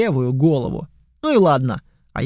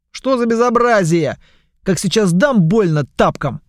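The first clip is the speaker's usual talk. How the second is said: stern scolding; 5 semitones higher, 4 dB louder than usual. Acted. Master scolding noisy rat.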